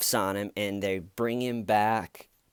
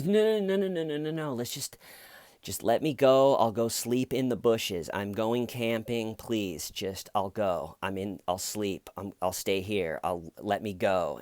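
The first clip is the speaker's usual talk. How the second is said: put-on drunken pleading. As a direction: plead like a drunk who won't get out. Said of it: "and he goes".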